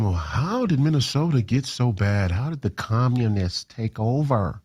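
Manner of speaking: mock Minnesota accent. Host mimicking Minnesotans who ask him questions, mock Minnesota accent. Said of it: "Sorry for my accent".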